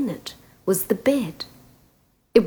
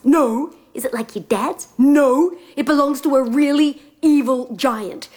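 put-on a slightly higher, worried young prince; warning her of the giant; lightly voiced prince; 5 semitones higher than usual.

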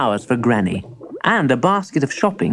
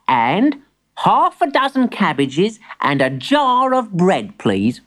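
put-on young boy voice; 6 semitones higher, slower than usual. Boy character voice.

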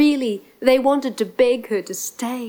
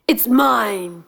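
mild lion roar. Acted. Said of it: "roared the lion".

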